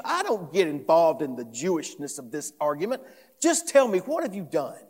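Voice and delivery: indignant, emphatic retort; Pilate, defensive. Acted. Pilate disowning the charges against Jesus, defensive. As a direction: push the blame away with mild exasperation. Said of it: "Suddenly, Pilate's on the defensive".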